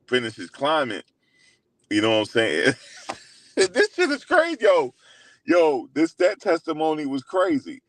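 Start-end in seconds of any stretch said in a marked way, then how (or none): 3.5-7.8 high, astonished exclaim; real disbelief. Real, not acted. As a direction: squeal it out in real shock at the story. Reacting to wild testimony.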